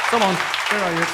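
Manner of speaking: high-pitched call across a crowd. Real, not acted. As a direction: summon someone up from the audience. Calling winners up to stage.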